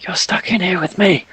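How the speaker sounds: high, eerie voice from the dark; sinister disembodied whisper-voice taunting trapped prey. Acted. Unseen voice taunting in darkness.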